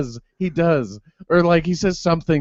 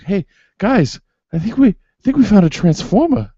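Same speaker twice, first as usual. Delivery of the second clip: higher, louder mock Wahlberg line with a would-be Texas twang; mock Mark Wahlberg; 8 semitones higher, 5 dB louder than usual. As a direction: imitate a bad Texas accent, a bit pumped up. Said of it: "he's supposed to be from Texas".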